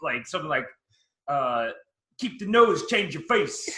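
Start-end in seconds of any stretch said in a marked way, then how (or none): 2.2-3.8 put-on thickest Brooklyn accent, high and loud. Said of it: "just the thickest Brooklyn accent".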